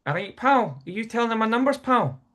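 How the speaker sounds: high-pitched Glaswegian challenge; Glaswegian accent. Retold or imitated. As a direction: imitate a suspicious Glaswegian pub player. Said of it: "this Glaswegians".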